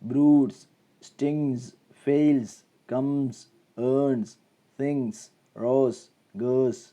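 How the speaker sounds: each word from ബ്രൂഡ്സ് to ഗേഴ്സ് ends in z; voiced Z endings. Shown as a demonstration. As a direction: model list, ബ്രൂഡ്സ് as "broodz", one word at a time. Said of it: "ഒക്കെ സ് എന്നാ പറയാ". (ബ്രൂഡ്സ് മുതൽ ഗേഴ്സ് വരെ അവസാനം "z" ശബ്ദം)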